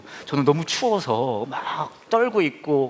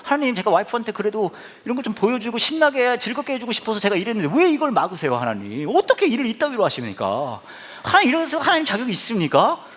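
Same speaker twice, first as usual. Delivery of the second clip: grumbling prayer; 6 semitones higher than usual. Retold or imitated. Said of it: "막 원망이 나오는 거예요".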